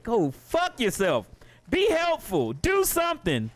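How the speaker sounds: high-pitched, exasperated scolding; exasperated retort. Acted. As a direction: tell off useless hackers, voice jumping up. Exasperated retort to imagined hackers.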